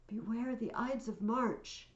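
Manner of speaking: drawn-out acted prophecy; soothsayer's warning. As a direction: repeat the omen slowly and deliberately. Soothsayer repeats his warning.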